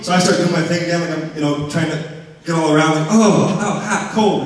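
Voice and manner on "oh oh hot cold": startled yelps. Retold or imitated. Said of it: "like that".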